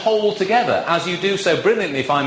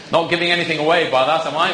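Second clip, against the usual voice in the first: laughing; faster than usual. Real, not acted. Joke about shopping at Waitrose.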